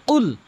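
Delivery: কুল with a heavy throaty q sound; correct Qul. Shown as a demonstration. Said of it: "এখানে কখনোই কুল বলবেন না".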